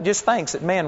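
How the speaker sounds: ordinary talk, nothing marked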